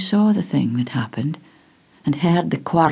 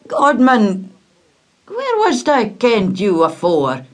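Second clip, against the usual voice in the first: a touch of raised surprise; startled; 5 semitones higher, 4 dB louder than usual. Acted. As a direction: gasp out the words in wonder. Peter startled in stairwell.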